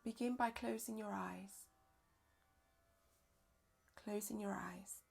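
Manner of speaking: calm yoga nidra guidance with long pauses; unhurried, measured relaxation-teacher voice; guided meditation. Real, not acted. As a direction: guide them gently inward, leaving space between phrases.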